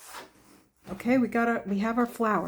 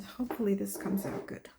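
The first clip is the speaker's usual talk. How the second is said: whispering; 7 dB quieter than usual. Real, not acted. Hopeful aside while painting.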